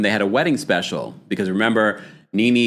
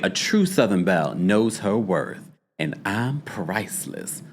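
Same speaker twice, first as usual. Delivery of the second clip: a lightly voiced Southern belle, softer and fading; Phaedra's voice; 3 semitones lower, 4 dB quieter than usual. Shown as a demonstration. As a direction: purr it like a slightly proud Southern belle. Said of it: "when you read it in Phaedra's voice".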